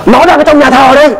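high, eager mother's voice; mother telling the pastor her son is in church; excited mother. Retold or imitated. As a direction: point it out with joy.

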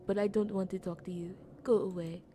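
badly faked French accent; terrible French accent. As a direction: read it with a clumsy French accent. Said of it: "I have a terrible French accent".

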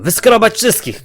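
a light touch of frightened shouting; panicked yell. Acted. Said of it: "krzyczał spanikowany".

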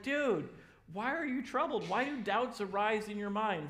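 high, loud easy dude; casual dude. Pretend. Jesus reassuring scared friends, high and loud. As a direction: chill surfer-style reassurance. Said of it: "Jesus is like".

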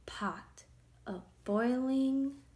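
ordinary delivery

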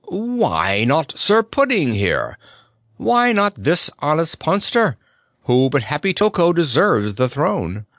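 a knight bursting out with an idea; eager outburst. A narrator's reading. Sir Hokus proposing Happy Toko as ruler, excited. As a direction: blurt it out, excited. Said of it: "burst out".

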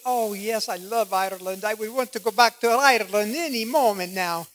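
put-on a light, lilting made-up Irish accent. Dolores gushing about home in a hint of Irish accent. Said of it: "I just made up that accent".

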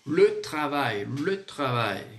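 slow "le travail" with scraped R; rasped French R. Shown as a demonstration. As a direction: model "le travail" slowly, throaty R in "tra". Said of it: "o R é bem rasgado".

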